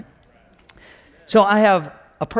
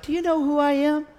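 put-on drawn-up, higher-pitched huffy old lady; indignant challenge; 10 semitones higher than usual. Old lady confronting the church usher, indignant. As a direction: challenge him in a lifted, offended voice.

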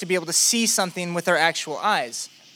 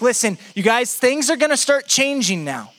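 urgent, higher-pitched assurance; raised, emphatic pitch, assuring the group; Jesus; 6 semitones higher than usual. Acted. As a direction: prepare your followers earnestly for what's coming. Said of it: "Jesus starts to assure them".

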